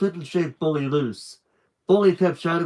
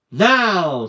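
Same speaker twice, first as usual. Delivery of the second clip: gruff shout; 4 semitones higher, 6 dB louder than usual. Acted. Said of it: "said Bully".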